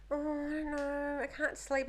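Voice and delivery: put-on sulky teen. Teen whining reply.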